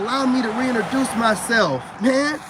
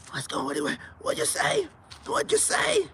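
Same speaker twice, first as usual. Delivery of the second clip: mock can't hear; 8 semitones higher than usual. Pretending not to hear chat.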